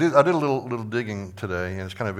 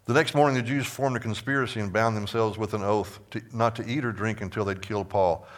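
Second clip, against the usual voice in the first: slightly raised, projected Bible reading; scripture reading. Acted. Teacher reading the plot against Paul from Acts, scripture reading. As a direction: read the verse out to the class.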